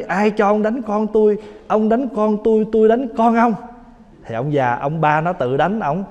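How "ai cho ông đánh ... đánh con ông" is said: higher, indignant protest from the father; a hammed-up outraged father; angry father. Father scolding the grandfather for hitting his son, mock indignant.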